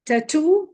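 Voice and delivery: tattoo with the weight on TOO; stress on last syllable. Shown as a demonstration. Teacher giving a double O example, stress on TOO in tattoo. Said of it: "the rule remains the same".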